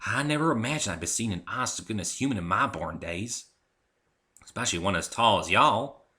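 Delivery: amazed farm mare; Applejack's voice. Acted. Applejack's country voice.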